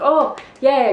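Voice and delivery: high, loud burst of retold joy; excited squeal. Telling how she pictured meeting her dog, excited squeal. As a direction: squeal it like the reunion is minutes away. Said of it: "I'm so excited 'cause I'm like".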